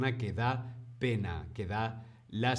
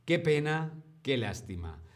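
sympathetic pity; 2 semitones higher than usual. Shown as a demonstration. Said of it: "reaccionar ... diciendo".

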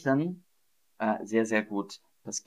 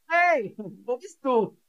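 demo shout; 12 semitones higher than usual. Shown as a demonstration. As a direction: call out as if someone is lost. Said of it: "was ist das Gegenteil von schreien". (laut gerufen, hoch)

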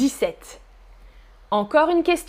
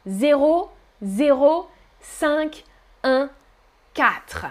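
digits read one by one, slowly; chiffre par chiffre; slower than usual. Shown as a demonstration. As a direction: spell out each digit. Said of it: "On peut dire chiffre par chiffre". (chiffre par chiffre, lentement)

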